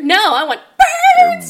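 high loud demand; excited shout. Acted. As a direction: insist on birds with glee. Game quote shouting.

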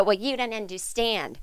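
mild mock of a smug mother; mocking mommy blogger. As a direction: talk down to child-free women. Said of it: "child-free women to go".

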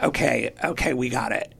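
low, soft reassurance; police calming voice. Retold or imitated. Police to screaming mother and child, calming voice. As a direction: settle things down quietly, playing an officer.

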